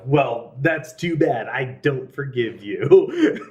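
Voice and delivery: mildly hammed-up stubborn refusal, drawn out at the end; mock grudge-holding. Voices human urge to hold grudges.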